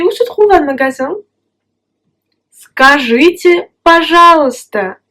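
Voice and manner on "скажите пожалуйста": скажите drawn out slowly, пожалуйста said clearly; slow model phrase. Shown as a demonstration. A teacher repeats скажите, пожалуйста slowly for the student. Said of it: "model phrase".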